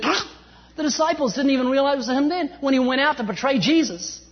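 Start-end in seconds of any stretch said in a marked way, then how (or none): 0.0-0.2 scornful pah. Retold or imitated. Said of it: "Judas said".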